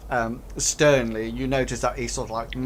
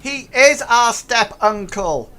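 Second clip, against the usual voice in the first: goblin insisting; 9 semitones higher, 7 dB louder than usual. Acted. Goblin correcting the story to the players. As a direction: stress the correction earnestly.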